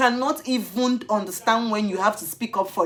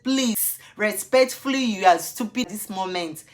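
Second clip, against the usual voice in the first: mock polite insult. Insulting the officer with sarcastic politeness. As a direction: politely call him stupid.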